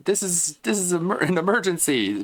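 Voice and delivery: mock urgent plea. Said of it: "Instead of being like".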